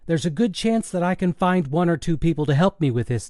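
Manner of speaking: a hint of a cajoling son; lightly voiced teenage son. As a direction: lightly play a son talking to his dad. Son's voice in story.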